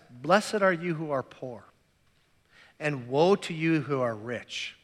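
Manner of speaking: solemn quoting. Acted.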